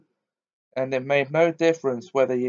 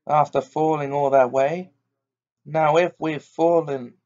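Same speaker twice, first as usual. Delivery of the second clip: firm, cheerful Cockney cabman; lightly voiced steady cabman; hearty cabby voice; 3 semitones higher than usual. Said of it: "A good, firm, hearty voice".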